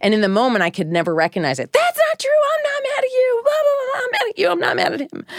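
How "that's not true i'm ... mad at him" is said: high, whiny mock denial; mock defensive mom. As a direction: play yourself as a flustered, defensive mother. Mother's defensive denial mocked.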